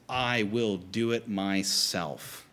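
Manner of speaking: I and MYSELF slowly drawn out; slow, deliberate weight on "I" and "myself"; double emphatic. Acted. Jesus saying he will go himself, emphatic. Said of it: "responds with a double emphatic".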